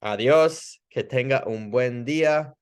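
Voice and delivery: upbeat, brighter goodbye to a patient; a bright friendly goodbye; friendly Spanish farewell. Shown as a demonstration. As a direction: send them off cheerfully in Spanish. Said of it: "make the next appointment".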